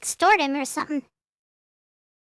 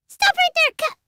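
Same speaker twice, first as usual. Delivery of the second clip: calling out; 8 semitones higher than usual. Acted. Calling out to intruder.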